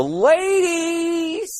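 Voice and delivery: slow swoop up high on "ladies"; crooning high rise on the last word; drawn-out ladies. Acted. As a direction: stretch "ladies" upward, long and high. Comic riff, drawn out rising.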